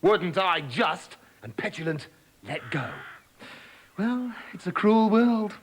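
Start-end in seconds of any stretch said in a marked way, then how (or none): 0.0-1.2 slow, drawn-out mocking reply; slow taunt. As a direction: savour the threat. Princess taunting the frog.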